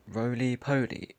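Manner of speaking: roly-poly said slowly, American style; slow careful roly-poly. Shown as a demonstration. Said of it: "American pronunciations".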